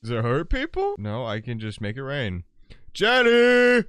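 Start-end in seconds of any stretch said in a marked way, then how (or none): 2.9-3.8 loud high call across the yard; yelling a name. Real, not acted. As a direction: shout her name at full volume. Calling out to Jenny in game.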